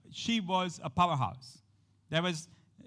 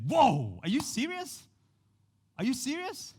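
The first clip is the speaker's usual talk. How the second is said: much higher, stunned and disbelieving; astonished woman; 8 semitones higher than usual. Retold or imitated. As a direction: gasp it out like she can't believe it.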